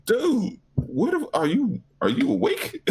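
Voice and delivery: mock exasperation. Retelling his exasperated reply to friend.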